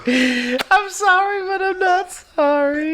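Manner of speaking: mock apology.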